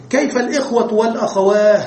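والأخواه ending in h, not t; pausal h. Shown as a demonstration. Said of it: "ووقفوا بالهاء". (الوقف بالهاء على الأخواه)

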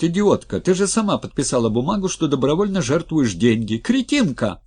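high, loud furious rant; furious shouting. Acted. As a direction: scream insults at her. Skotnikov berates Anna.

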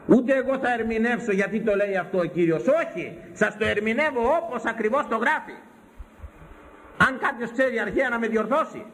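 high, emphatic sermon voice; defiant high-pitched preacher; insistent preaching. Acted.

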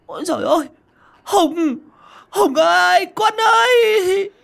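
anguished cry. Acted. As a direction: cry out in horror to their son. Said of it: "cả hai kêu lên".

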